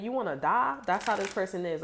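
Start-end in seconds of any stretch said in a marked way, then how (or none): 0.0-0.8 high, louder mock threat. Hothead threatening someone, loud and high mock menace. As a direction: taunt like a brawler itching to fight.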